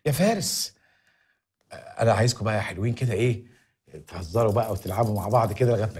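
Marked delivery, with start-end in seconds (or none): 0.1-0.8 higher, slower, pressing complaint; high agitated plea. Acted. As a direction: beg him to hurry, voice raised. Pleading about debts.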